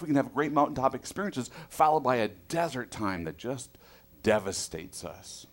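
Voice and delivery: ordinary talk, nothing marked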